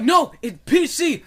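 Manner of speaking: high, loud, slow insistence; hammed-up argumentative comeback, words drawn out; mock bickering. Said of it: "they're both, like, bickering back and forth".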